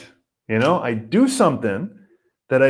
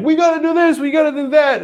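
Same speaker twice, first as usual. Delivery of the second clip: higher, louder pushy inner self; restless inner voice; 13 semitones higher, 4 dB louder than usual. Retold or imitated. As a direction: nag yourself to hurry. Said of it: "my restlessness is like".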